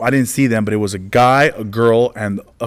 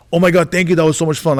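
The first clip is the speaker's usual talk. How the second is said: higher-pitched mock enthusiasm; imitated gushing fan; 6 semitones higher, faster than usual. Fan thanking comedian after show, imitated gushing. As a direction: gush thanks like a delighted fan. Imitates grateful audience members.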